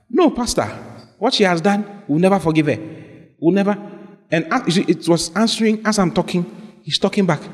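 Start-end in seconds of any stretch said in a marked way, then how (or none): 0.1-3.8 indignant refusal. Retold or imitated. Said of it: "answered back".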